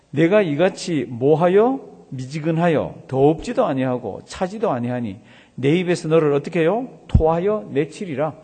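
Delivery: slow, forceful verse reading; emphatic scripture reading. Acted. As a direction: declaim the verse with heavy, drawn-out key words. Reads scripture aloud to congregation.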